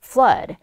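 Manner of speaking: "Flood" with an "uh" vowel, like "flud"; short "uh" vowel. Shown as a demonstration. Teacher modelling the vowel for students, "Flood" with "uh". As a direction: say "Flood" to rhyme with mud. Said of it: "어 발음으로 소리가 나죠".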